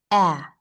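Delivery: "ah" as the open vowel in apple; short A sound. Shown as a demonstration. Teacher demonstrating vibration in the A sound, short A sound. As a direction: say "ah" twice, short and separate, mouth spread. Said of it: "make a little smile to create this sound".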